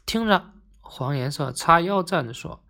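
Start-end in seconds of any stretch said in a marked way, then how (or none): 0.1-0.5 stern call. Acted. Yellow colour calls for order.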